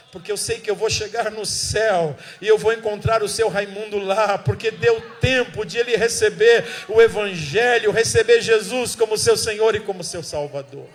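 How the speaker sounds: preaching joy at full force; joyful shout. Retold or imitated. Preacher tells the congregation of saved man, shouting for joy.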